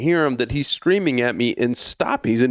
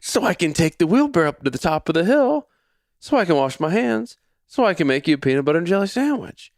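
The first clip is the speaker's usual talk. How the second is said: half-laughing plea; 7 semitones higher than usual. Retold or imitated. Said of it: "I'm almost laughing".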